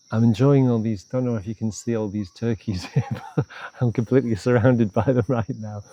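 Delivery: real giggle breaking into the sentence; amused, laughing. Real, not acted. Meditation teacher surrounded by all these turkeys, amused and laughing. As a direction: chuckle through the words.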